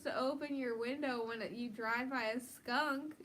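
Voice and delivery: heated rant about skunks; worked up. Real, not acted. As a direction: get riled up over it. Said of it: "Morgan, calm down".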